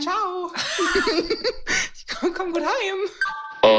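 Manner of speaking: slow, high, laughing goodbye; mock farewell. Acting the date's quick exit, slow high laughing farewell. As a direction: wave them off in mock cheer.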